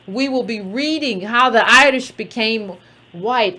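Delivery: a hint of an Irish accent, slowed; slight Irish accent. Host announcing the next book club read: a faint, slow Irish accent. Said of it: "tried to throw in an Irish accent".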